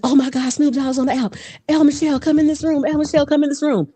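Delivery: high, urgent summons; excited crowd. Retold or imitated. Imitating app users calling her in, high excitement. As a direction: imitate a crowd clamouring for someone.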